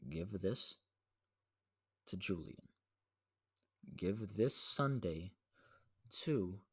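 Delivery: slow, spaced-out retold orders; careful instructions. Giving little cousin exact instructions, slow and deliberate. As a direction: spell it out with long pauses between phrases.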